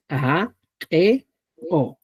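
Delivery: "A, E, O" with popped Cusco Quechua onsets; Cusco Quechua sounds. Shown as a demonstration. Teacher demonstrating Cusco Quechua sounds, popped syllables. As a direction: pop each of "A, E, O" separately. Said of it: "Utilizamos esto".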